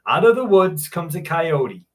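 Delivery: reading a personal account aloud; measured read-aloud storytelling; story narration. A narrator's reading. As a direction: narrate a true scary story to an audience. Reads out a listener's story.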